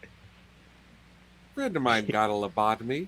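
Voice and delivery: slow, soft whisper. Real, not acted. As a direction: whisper it slowly. Deadpan aside to the room.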